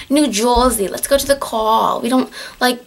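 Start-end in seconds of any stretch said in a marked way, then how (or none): 0.1-0.9 lightly mocked New Jersey accent. Shown as a demonstration. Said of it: "Not all of us talk like this". 0.9-2.0 lightly mocked New Jersey accent. Shown as a demonstration. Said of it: "Not all of us talk like this".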